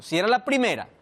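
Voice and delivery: ordinary delivery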